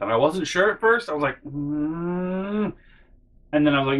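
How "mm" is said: rising, drawn-out doubtful hum; higher, hesitant "mm"; unsure hum. Retold or imitated. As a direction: hum as if weighing it up. Unsure whether he knows the guy.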